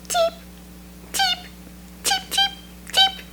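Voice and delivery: high, soft little peeping; baby chick cheeps. Acted. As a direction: peep like a tiny newborn chick. Baby birds just hatched.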